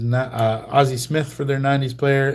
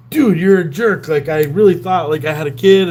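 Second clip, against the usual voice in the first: mock angry scolding; 5 semitones higher, 5 dB louder than usual. Prank victim scolds him.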